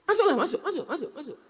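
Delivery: high, laughing taunt; teasing laugh. Real, not acted. Preacher teases the wailing wife to go in, laughing. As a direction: egg her on, laughing. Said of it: "Saya mau nengok".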